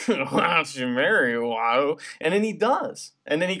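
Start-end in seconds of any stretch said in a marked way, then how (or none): 0.1-2.0 a hint of another voice, slow; slow teasing line, lightly voiced; lightly voiced Master Ball. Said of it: "Master Ball's like".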